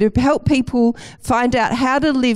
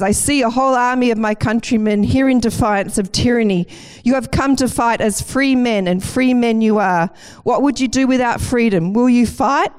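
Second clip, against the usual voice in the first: lightly acted rallying battle speech; a mild, measured mock-rousing oration; William Wallace; 3 semitones higher than usual. Speaker quotes Braveheart's hero to his fellow Scotsmen, lightly rousing. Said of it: "portrayal of William War-, Wallace in Braveheart".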